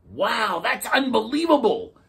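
high, loud amazement; amazed clownfish. A narrator's reading. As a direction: gasp it out in wonder. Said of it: "said the clownfish".

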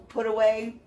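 ordinary talk

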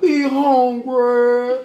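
drawn-out, pleading "We hungry" with the "We" stretched long; slow hungry plea. Retold or imitated. Imitating barbershop boys begging for food, stretched slowly. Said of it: "No, I ain't saying it right".

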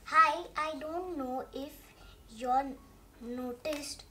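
loud, pleading pigeon voice; pushy pigeon. Acted. Pigeon begging the reader for help, loud and pleading. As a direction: beg like a grubby bird wanting help.

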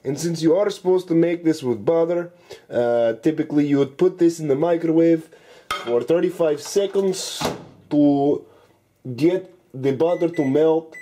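mock Russian accent, dropping articles like the/a; hammed-up Russian accent throughout the cooking video. Cooking show host jokes to viewers in a mock Russian accent. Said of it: "today I will be talking in Russian accent".

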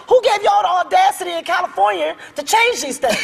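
a touch of hammed-up outrage; mock angry rant. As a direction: rant at the school grading. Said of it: "made me even more angry".

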